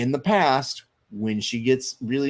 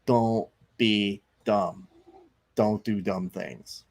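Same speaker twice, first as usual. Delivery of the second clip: mock stern parent; slower than usual. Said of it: "and I go".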